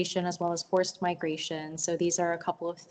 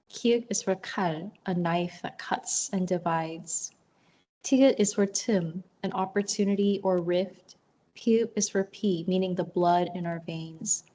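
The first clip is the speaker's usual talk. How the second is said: poem reading. Acted. Poet reads Korean alphabet poem to online audience, measured recital. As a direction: recite each letter line evenly, with pauses.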